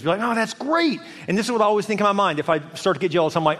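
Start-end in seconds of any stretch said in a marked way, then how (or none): 0.2-1.0 higher, mildly delighted cheer; celebrating. Acted. Celebrating other people's wins, delighted. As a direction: demonstrate being happy for someone. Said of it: "Celebrate their wins".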